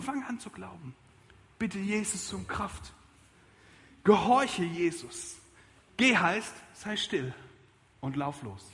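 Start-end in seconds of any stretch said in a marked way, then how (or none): 4.0-5.4 slow, weighty command; slow firm command. Acted. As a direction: lay down each word slowly. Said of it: "sermon command". (langsam und gewichtig befehlend)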